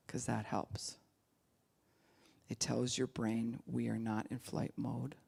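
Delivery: soft slow whisper; whispered calm. Shown as a demonstration. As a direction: hush it to calm down. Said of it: "Let's talk quieter".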